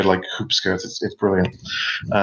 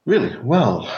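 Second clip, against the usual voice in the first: affronted surprise; 5 semitones higher than usual. Acted. Ermina reacts to the rude reply.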